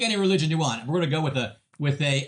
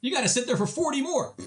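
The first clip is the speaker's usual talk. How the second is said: rambling salesperson; 9 semitones higher than usual. Retold or imitated. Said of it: "They haven't gotten their".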